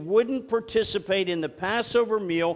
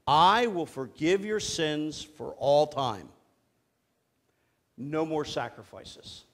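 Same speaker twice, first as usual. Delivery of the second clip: slow reading; 3 semitones lower than usual. Shown as a demonstration. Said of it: "Here it is".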